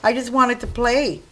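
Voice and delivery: mock sad puppy. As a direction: voice a left-behind puppy, lightly hammed-up. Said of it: "he would be there so sad".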